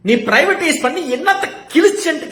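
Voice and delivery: high, loud angry demand; emotional outburst. Shown as a demonstration. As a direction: fire the question hotly at them. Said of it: "இதுவும் எமோஷனலா கேட்கல".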